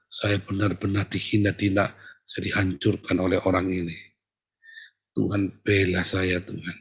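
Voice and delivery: low, acted plea to God; wounded prayer. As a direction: lay out the hurt to God in a low voice. Acting out a wounded believer's prayer. (doa memelas dengan nada rendah)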